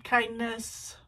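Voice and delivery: usual speaking voice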